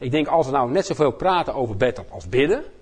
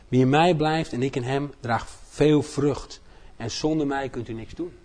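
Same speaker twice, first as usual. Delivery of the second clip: slow, solemn Bible reading; scripture reading. Acted. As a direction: read each verse deliberately. Reads John 15 aloud.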